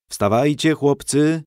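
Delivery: kindly rousing call; gentle voice. A narrator's reading. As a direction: gently call the sleepers awake. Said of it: "odezwał się łagodny głos".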